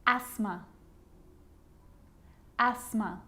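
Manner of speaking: "Asthma" as ASS-muh, no TH; careful, separate models of "Asthma"; silent T. Shown as a demonstration. Teacher showing the sneaky T, careful repeated model. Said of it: "it can also be silent".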